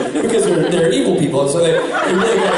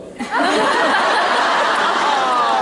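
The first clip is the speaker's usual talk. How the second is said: big burst of laughter; 9 semitones higher than usual. Real, not acted. Reacting to the prank story.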